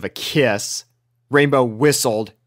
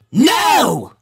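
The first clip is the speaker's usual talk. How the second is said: higher, sharp no; shouted no; 12 semitones higher, 5 dB louder than usual. A narrator's reading. Both mares shouting down Sweetie Belle. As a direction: cut her off hard. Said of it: "shouted Rainbow and Rarity together".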